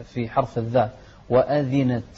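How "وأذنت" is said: وأذنت with a clear "i" on the ذ; full short kasra under the ذ in وأذنت. Shown as a demonstration. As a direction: articulate وأذنت as wa-adhinat. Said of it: "نوضح الكسر في".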